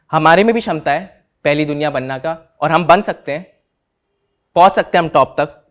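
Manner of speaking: rousing speech, voice lifted. Acted. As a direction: raise the voice to rally the room. Rousing claim in defence speech.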